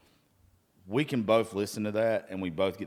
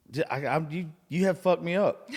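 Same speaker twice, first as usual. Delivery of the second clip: laughing; 9 semitones higher, 7 dB louder than usual. Real, not acted. Host cracks up ending show.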